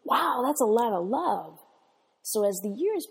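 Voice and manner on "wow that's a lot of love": put-on delighted child. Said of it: "her little eyes brightened".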